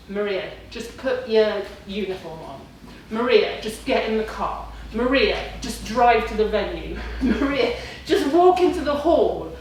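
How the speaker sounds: self pep talk. Retold or imitated. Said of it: "having this argument again with myself".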